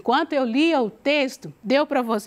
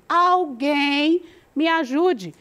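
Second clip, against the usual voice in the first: a hint of a man shouting for help, slow; lightly voiced desperate man; 3 semitones higher, much slower than usual. A narrator's reading. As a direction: call slowly for help, half acted. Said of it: "gritou ele". (leve voz de homem pedindo ajuda)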